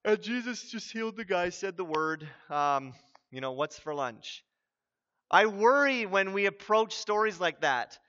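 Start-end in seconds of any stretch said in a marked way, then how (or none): 0.0-4.4 flat, bored shrug of a voice; mildly bored churchgoer; bored yawning. Retold or imitated. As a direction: say it like you're half asleep in church. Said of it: "almost kind of yawning".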